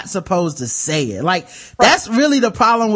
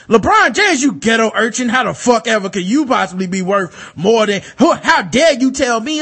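mocking bigoted sports fan; 2 semitones higher than usual. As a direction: sneer it out like an entitled fan scolding LeBron. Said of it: "So it's like".

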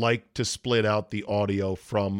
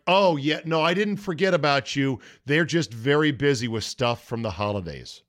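imitated receptionist; 3 semitones higher than usual. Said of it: "She's like".

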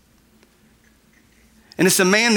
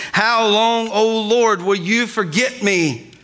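impassioned, higher-pitched plea to God; raised preacher's voice, pleading with God; loud crying out; 3 semitones higher than usual. Acted. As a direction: cry out the psalm in mounting frustration. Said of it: "I just read it in a very loud voice".

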